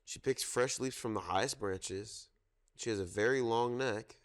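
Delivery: storytime reading. Acted. Reads zoo picture book aloud.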